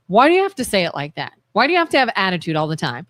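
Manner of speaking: low, fast retold complaint; exasperated griping. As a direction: rattle off a well-worn marital gripe.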